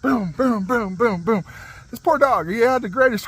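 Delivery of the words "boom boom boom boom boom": rhythmic string of booms; bouncing impact noises. Retold or imitated. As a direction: imitate something ricocheting, one boom per bounce. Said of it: "bouncing off stuff like a ping pong ball".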